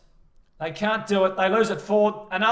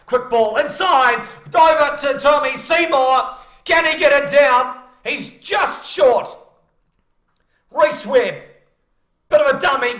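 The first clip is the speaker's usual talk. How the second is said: excited commentary shout; 7 semitones higher, 10 dB louder than usual. Real, not acted. Try-line commentary climax.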